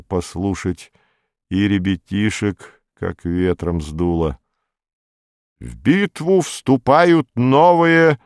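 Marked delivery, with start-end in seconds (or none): 5.6-8.2 high, loud, slow metallic drone. A narrator's reading. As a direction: drone it like a machine in a trance. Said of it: "металлическим голосом бредил слухач".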